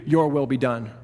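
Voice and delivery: grave words handed down, falling on your; somber verdict. Shown as a demonstration. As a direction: let it drop like a judgment. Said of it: "or God says to you".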